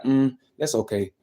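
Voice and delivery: slow, unimpressed mm; mock a doubter brushing it off; dismissive hater. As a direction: hater shrugging off good news, slowly. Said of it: "they like".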